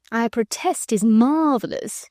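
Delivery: slow, unruffled drawl; imperturbable. Acted. Percy mocking the Frenchman, slow and unbothered. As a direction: take your time, utterly unbothered. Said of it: "continued Sir Percy imperturbably".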